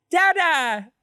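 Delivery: put-on high, bright call of a little girl; excited toddler call. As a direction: call out like a toddler greeting her dad. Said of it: "her voice as you walk in".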